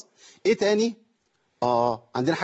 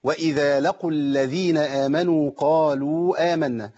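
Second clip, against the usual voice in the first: slow chanted tajweed reading; measured reverent recitation; Quran recitation; slower than usual. Shown as a demonstration. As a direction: recite slowly with long held vowels. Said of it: "قوله تعالى".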